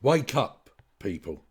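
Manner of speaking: loud exasperated plea; calling out. Real, not acted. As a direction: shout it as a wake-up call. Urging listeners at the end.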